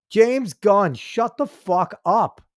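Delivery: slow, punched, fed-up command; fed-up anger. Real, not acted. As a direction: spell it out slowly in anger. Angry rant at director.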